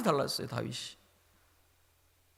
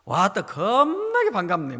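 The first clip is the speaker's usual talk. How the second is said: Jeolla dialect; 2 semitones higher, 5 dB louder, slower than usual. Retold or imitated. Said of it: "팔십 먹은 할머니들이 쓰는 사투리".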